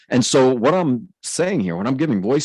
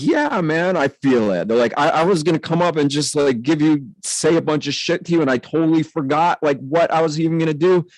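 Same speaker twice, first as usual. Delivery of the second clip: retold bewilderment, pitched higher; amazed prisoner; 7 semitones higher than usual. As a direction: imitate a man baffled by his own feeling. Retelling amazed prisoner's confused confession.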